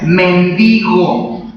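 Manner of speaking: "mendigo" stressed on the second syllable, DI; correct pronunciation. Shown as a demonstration. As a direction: model "mendigo" carefully as men-DI-go. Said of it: "la palabra correcta es".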